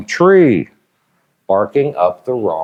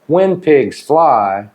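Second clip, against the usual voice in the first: slow; 2 semitones higher, much slower than usual. Shown as a demonstration. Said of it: "review list, drawn out".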